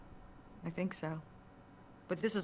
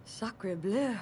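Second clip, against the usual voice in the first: put-on French accent; 3 semitones higher, 4 dB louder than usual. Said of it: "learn French".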